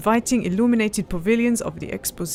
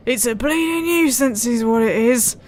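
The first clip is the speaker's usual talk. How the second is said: Yorkshire grumble; 3 semitones higher, 3 dB louder than usual. Acted. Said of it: "grumbled in a thick Yorkshire accent".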